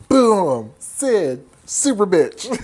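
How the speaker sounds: loud, high knockout cheer; triumphant hype. Real, not acted. Recapper celebrating Sidney's punch, triumphant. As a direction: shout it out in celebration.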